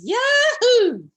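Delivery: high, loud joyful yahoo; bunny's yahoo. Acted. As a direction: whoop it out like a thrilled bunny. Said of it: "and the bunny says".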